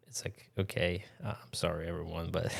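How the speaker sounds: hushed mock apology; sheepish whisper. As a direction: whisper a guilty sorry.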